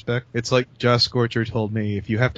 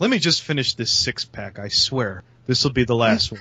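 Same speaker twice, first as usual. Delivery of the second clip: mock alcoholic. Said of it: "it sounds like an alcoholic".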